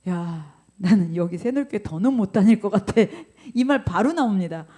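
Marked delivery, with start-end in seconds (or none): 0.1-2.9 laughing mock complaint. Imagined quitting church, laughing.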